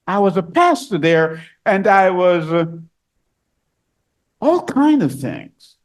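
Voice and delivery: a churchgoer protesting at the gate; pleading believer. Acted. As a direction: beg him to remember you. Imagined believer pleading with Christ.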